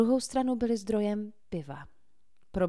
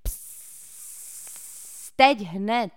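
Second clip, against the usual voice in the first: insisting; 3 semitones higher, 8 dB louder, much slower than usual. A narrator's reading. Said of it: "trval na svém Cole".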